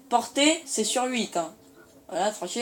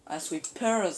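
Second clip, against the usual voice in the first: sweepers said with a light English accent, swee-pers; much slower than usual. Shown as a demonstration. Gamer jokingly repeats the weapon name, light English accent. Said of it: "petit accent anglais et tout".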